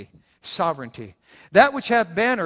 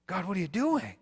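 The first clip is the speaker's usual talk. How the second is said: despairing murmur; 3 semitones higher, 6 dB quieter than usual. Pretend. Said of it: "uttered that from a bankruptcy court".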